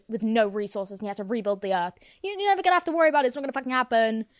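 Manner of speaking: mock outrage at her own brain; indignant rant. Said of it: "I was so upset".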